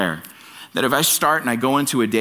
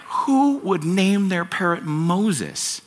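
higher and slow, incredulous; baffled burglar; 7 semitones higher, much slower than usual. Retold or imitated. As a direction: drag it out in disbelief.

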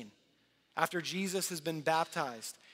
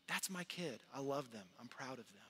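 softer, a hint of a proud father bragging; gentle proud dad; 5 semitones lower, 11 dB quieter than usual. Dad bragging about his kids, softly proud. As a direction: say it softly with quiet pride. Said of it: "bragging about them".

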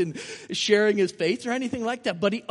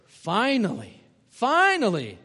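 mock relieved sigh; 3 semitones higher, 5 dB louder, slower than usual. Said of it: "everybody's going".

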